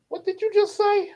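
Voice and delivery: shocked. Retold or imitated. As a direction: gasp it out in disbelief. Shocked dream self.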